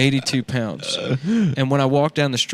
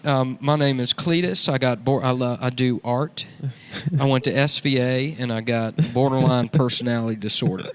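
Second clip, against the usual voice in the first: redneck character voice. Acted. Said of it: "That's a good character".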